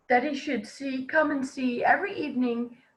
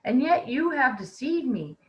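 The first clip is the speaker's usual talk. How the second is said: witch's rage; 4 dB louder than usual. Acted. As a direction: scold the wicked child in fury. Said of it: "In her rage".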